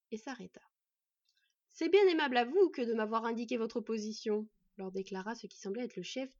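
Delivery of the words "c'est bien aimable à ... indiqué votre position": loud, mocking courtesy; mock-polite. Bandit chief taunting his prey, mock-polite. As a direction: thank them with smug irony.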